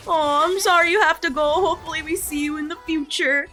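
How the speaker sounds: lightly voiced mopey anime girl, quick at the end; mock the sad mascot saying goodbye; a hint of a pouting game mascot; sad waifu voice. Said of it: "these sad waifus going".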